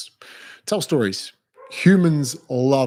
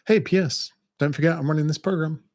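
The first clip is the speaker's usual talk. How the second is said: breezy sales pitch; 4 semitones higher than usual. Shown as a demonstration. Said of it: "pop it in like a little P S".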